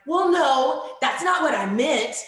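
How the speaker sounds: put-on high, loud protest of a flustered little girl; backpedaling girl. The girl backs down after her teacher questions her, high loud protest. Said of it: "then she's like".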